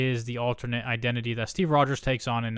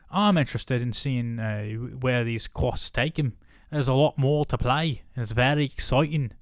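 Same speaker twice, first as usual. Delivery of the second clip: put-on a light, loose Scottish accent. Turning the actor's quote into a light Scottish accent. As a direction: read the quote with a mild Scottish lilt. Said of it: "Now I made him Scottish".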